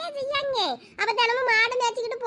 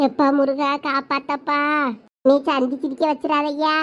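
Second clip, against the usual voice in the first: anxious prayer; 7 semitones lower than usual. Acted. Mother prays to Murugan.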